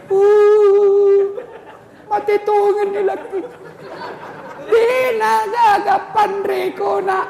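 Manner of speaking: high, loud mock wail of a widow. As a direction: ham up a grieving widow's lament. Widow wailing at funeral. (ratapan janda yang dibuat-buat)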